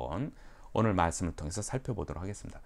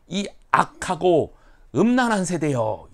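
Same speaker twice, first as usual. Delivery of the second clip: loud, slow, higher scolding; stern rebuke; 7 semitones higher, 9 dB louder than usual. Retold or imitated. Jesus rebuking the crowd, loud stern scolding. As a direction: thunder the rebuke. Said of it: "이렇게 질책을 했어요".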